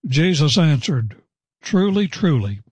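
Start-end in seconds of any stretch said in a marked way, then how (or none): 1.6-2.6 "Truly, truly" lifted high and stressed; emphatic. Acted. Teacher quoting Jesus to Nicodemus, emphatic "Truly, truly". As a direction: lean hard on "Truly, truly". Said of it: "It's very emphatic".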